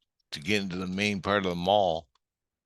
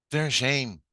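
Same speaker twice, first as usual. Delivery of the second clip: raised but more contained restatement; firm repeat; 5 semitones higher than usual. Retold or imitated. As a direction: repeat it firmly, easing off. Repeats the answer more evenly.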